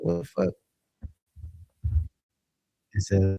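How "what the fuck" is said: higher and hushed, caught off guard; startled disbelief. Retold or imitated. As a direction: gasp it out in sudden shock. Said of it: "I'm like".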